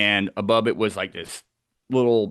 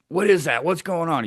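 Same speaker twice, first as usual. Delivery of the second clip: mildly panicked, higher-pitched questions; retold freaking out; 7 semitones higher than usual. Camper quoting his newly woken buddy in the tent, mock panic. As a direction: act out a buddy starting to freak out. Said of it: "He's freaking out".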